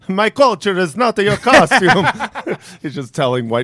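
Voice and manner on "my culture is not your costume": higher, louder mock pope; a pope lecturing people, hammed up; mock pope lecture. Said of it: "He's like".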